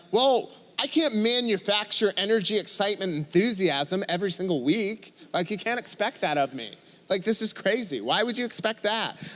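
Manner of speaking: put-on lisping complainer; imitating a lisping, incredulous objector; mock lisp. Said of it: "so I went straight to a lisp".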